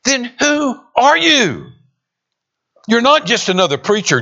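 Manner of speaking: high, pressing demand that slows then rushes on; an exasperated official demanding an answer; a fed-up leader pressing John hard; exasperated questioners. Acted. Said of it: "Then they were exasperated".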